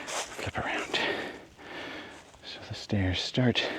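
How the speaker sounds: whispering. Real, not acted. Filming quietly on the trail.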